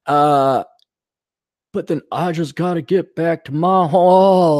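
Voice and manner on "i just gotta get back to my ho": slow mock Texas drawl; hammed-up dopey Texan; Texas dope. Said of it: "oh, the, the Texas dope".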